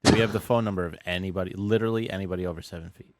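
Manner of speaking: panicky Mark Cuban. Retold or imitated. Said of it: "He's like".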